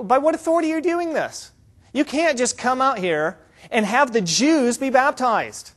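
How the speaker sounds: indignant challenge. Acted. Religious leaders question John's authority to baptize, indignant. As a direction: challenge his right to do this.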